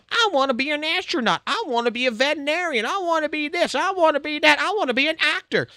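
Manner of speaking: high, whiny imitation of a little kid; mock kid voice. Mocking kids who dream big, in a high childish voice. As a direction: mimic a starry-eyed child.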